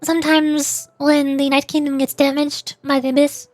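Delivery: lightly voiced young narrator, earnest and regretful; reading character lines. Streamer reading a game character's confession, earnest.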